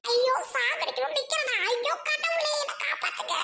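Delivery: hammed-up scared cry; acted panic. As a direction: flee from a ghost, begging for rescue. Victim flees from a threatening ghost.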